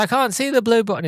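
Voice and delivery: put-on high whiny little boy; whiny kid. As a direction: protest like a whining kid. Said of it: "He's like".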